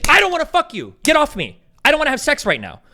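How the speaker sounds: high, emphatic acted refusal; firm refusal. Debater voicing what she should say to him, firm refusal.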